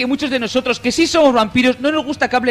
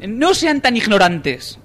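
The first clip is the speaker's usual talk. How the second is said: reading forum post voice; 3 dB louder, much slower than usual. Retold or imitated. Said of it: "sigue el tío".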